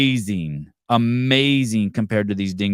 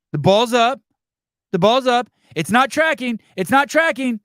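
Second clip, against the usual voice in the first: hyped play-by-play; 8 semitones higher than usual. Shown as a demonstration. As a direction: sell the kick like a live broadcast. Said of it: "demonstrates better commentary".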